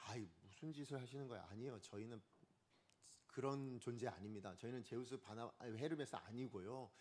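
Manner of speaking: low, soft, gentlemanly objection; polite, restrained. Acted. Preacher imagining apostles calmly refusing to be worshipped, polite and restrained. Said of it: "이렇게 점잖하게 얘기해도 되는 거 아닙니까?".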